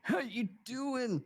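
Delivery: drawn-out high "How you doing"; mock flirty pickup greeting; slow, high Joey Tribbiani flirt. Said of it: "Level three friendship".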